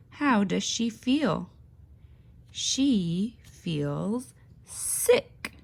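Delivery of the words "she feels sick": slow sad. A narrator's reading.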